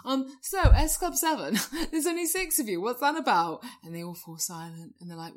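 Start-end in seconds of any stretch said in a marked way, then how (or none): 0.0-3.6 radio DJ. Pretend. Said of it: "they go".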